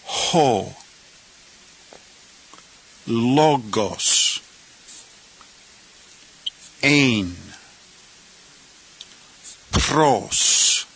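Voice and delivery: each word "Ho", "Logos", "Ein", "Pros", "Ton", "Theon" said alone with a pause; word-by-word Greek. Shown as a demonstration. Teacher reading the second clause word by word. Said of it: "let's look at the second clause".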